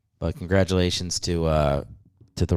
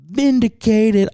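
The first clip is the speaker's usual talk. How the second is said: triumphant shout; 13 semitones higher, 6 dB louder, slower than usual. Real, not acted. Gloating over being right.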